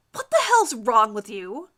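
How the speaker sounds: loud, slow outraged cry; girl crying out while pulling the rival away. Acted. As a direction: drag the words out in outrage. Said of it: "another girl at the table cries".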